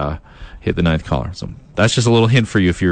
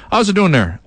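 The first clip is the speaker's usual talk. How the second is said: put-on higher, punchy East Coast accent; 9 semitones higher than usual. Radio host showing fans his East Coast accent, higher and hammed-up. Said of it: "East Coast accent".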